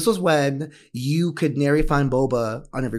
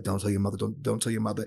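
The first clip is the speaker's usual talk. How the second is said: hushed secret; 3 semitones lower, 6 dB quieter than usual. Retold or imitated. Dad sneaking daughter forbidden candy.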